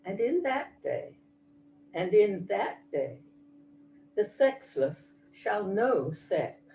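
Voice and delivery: measured, solemn poetry reading with deliberate pauses; poem recitation. Acted. Mother reads her Moonshot poem to the audience, measured recitation. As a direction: recite it line by line, each phrase falling to a close.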